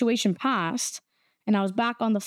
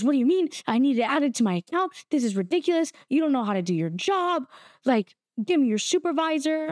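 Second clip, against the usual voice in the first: mildly raised, indignant mock rant; retold freakout; 3 semitones higher than usual. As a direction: imitate an irate customer, lightly. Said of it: "he starts freaking once again".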